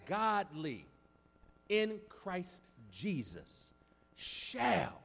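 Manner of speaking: each word set apart with long pauses, very slow; word-by-word emphasis. Shown as a demonstration. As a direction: drag out "godly in Christ Jesus shall" word by word. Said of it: "Did y'all catch that?".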